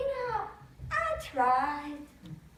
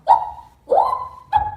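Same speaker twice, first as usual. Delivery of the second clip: imitated cheer; 15 dB louder, faster than usual. Fishers cheering a catch.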